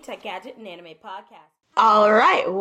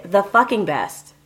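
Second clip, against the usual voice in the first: excited without yelling; slower than usual. Shown as a demonstration. Host demonstrating an excited tagline without yelling. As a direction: sell "The fucking best" with belief but no shouting. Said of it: "I sounded excited, and I didn't have to yell".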